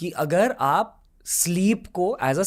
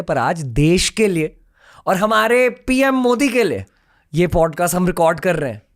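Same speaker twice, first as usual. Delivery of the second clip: louder, emphatic host announcement; excited; 6 dB louder than usual. Real, not acted. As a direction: build with excitement and proclaim it proudly. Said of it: "मैं बहुत excited हूँ".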